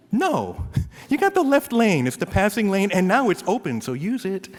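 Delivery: loud, high comic scolding; hammed-up lecture to a tailgater; indignant driver. Acts arguing with tailgating driver.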